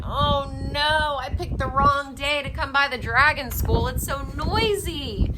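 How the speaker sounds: loud fussy squirrel voice; annoyed squirrel. Acted. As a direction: complain about the racket. Squirrel complains of noisy school.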